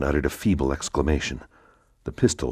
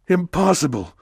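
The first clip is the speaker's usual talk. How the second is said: higher, louder, final Impossible; emphatic refusal; 6 dB louder than usual. Acted. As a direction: slam the door with Impossible. Count refuses her plea.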